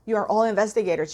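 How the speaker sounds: fast, rushed restatement; hurried, urgent repeat; quick repeat. Shown as a demonstration. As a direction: rattle it off quickly.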